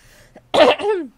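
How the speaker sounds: loud throaty cough; chesty cough. Real, not acted. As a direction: cough hard to clear the throat. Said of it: "przepraszam was bardzo za ten kaszel".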